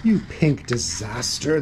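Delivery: mildly indignant cry; upset cry. Acted. Ghost to Panther after the lemonade spill, mildly upset cry. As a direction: scold with a touch of dismay. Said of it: "the ghost cried".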